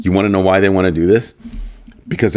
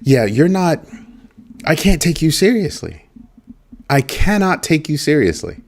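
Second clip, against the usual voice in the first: dismissive; 8 semitones higher than usual. Retold or imitated. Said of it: "I was like".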